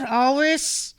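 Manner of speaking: bored toad grumbling about his job; toad folk accent. Acted.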